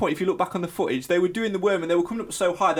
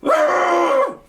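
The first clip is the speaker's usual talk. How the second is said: loud high dramatic gasp; exaggerated, noisy intake of breath; mock hysterical gasp; 7 dB louder than usual. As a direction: gasp in hammed-up panic. End of mocked hysterics.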